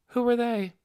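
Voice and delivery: cool direct ask; blunt question. Acted.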